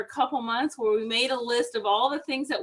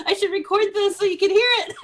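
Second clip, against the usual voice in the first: laughing; 9 semitones higher, 5 dB louder, faster than usual. Real, not acted. Laughing at friend's squeaky voice.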